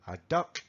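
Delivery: duck with a short open u and hard k; DUCK with short vowel. Shown as a demonstration. Teacher contrasting duck with dog, short vowel. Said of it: "a ver si oís la diferencia".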